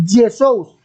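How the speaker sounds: Jesús dicho "Esús" a la griega; pronunciación griega. Shown as a demonstration. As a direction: pronuncia Jesús sin jota, como en griego. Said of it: "En griego". (Jesús pronunciado a la griega)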